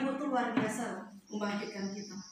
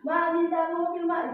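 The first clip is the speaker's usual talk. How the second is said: put-on whiny child begging; 3 semitones higher, slower than usual. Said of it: "kalau anaknya minta mobil-mobilan".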